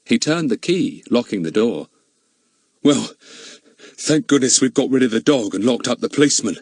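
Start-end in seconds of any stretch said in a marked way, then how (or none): 2.8-6.6 shaky, relieved crook. Acted. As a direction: voice trembling with relief. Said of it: "he said in a shaky voice".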